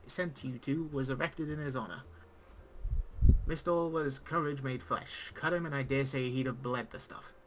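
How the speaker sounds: pirate-esque speech. Acted. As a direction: play the gruff old tavern pirate, not too broad. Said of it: "pirate-esque speech".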